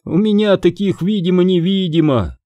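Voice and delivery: high-pitched, pleased barmaid; self-satisfied hostess voice. A narrator's reading. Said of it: "довольно сказала она".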